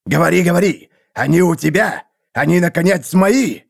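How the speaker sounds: high, eager impatient demand. A narrator's reading. Seer demands news of his captives, impatient. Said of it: "нетерпеливо ответил провидец".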